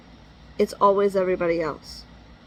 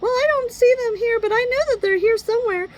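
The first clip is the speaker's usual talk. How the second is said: imitating case manager; 12 semitones higher than usual.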